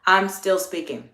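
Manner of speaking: polite reminder at an easy volume; friendly, courteous correction; friendly check. Shown as a demonstration. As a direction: check them kindly, without dropping the volume. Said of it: "my tone of voice was still very friendly".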